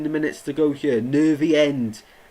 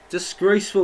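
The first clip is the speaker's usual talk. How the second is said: outraged; 6 semitones higher, 5 dB louder than usual. Real, not acted. Preston refuse to return ball.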